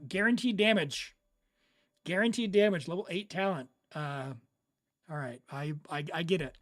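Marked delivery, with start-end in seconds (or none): 0.1-3.7 excited. Real, not acted. Excited over a build.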